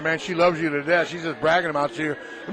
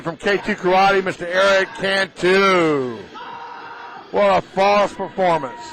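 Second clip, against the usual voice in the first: louder, excited tournament announcer call; live play-by-play; 3 dB louder than usual. Acted. Announcer calling a champion's form to viewers, louder and excited. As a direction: call the karate action like ringside commentary.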